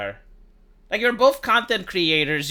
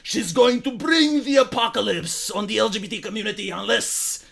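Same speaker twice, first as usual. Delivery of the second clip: mock hysterical leftist. Vlogger parodying leftists outraged over Hogwarts, hysterical put-on voice. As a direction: rant like an alarmist activist. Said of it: "They were like".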